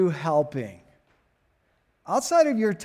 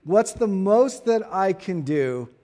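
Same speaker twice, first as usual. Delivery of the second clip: most leaned on, slow; slow it down and press on most; stress on most; 2 semitones higher than usual. Shown as a demonstration. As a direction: most said slowly and firmly. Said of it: "I want to emphasize that word most".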